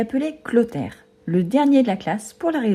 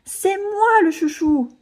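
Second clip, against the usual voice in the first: much higher, slow wailing protest; wailing yell; 12 semitones higher, slower than usual. A narrator's reading. Agnan at the end of his nerves, howling. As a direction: lose it completely. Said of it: "hurle Agnan, à bout de nerfs".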